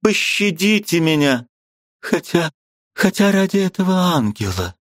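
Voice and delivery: высокий умоляющий женский голос; моли пощадить ради дочери; мольба о пощаде. A narrator's reading. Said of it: "сказавши эти слова". (высоко, умоляюще)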